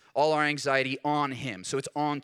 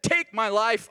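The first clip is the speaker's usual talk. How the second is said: Elijah pleading; 6 semitones higher, 5 dB louder, slower than usual. Retold or imitated. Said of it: "he said".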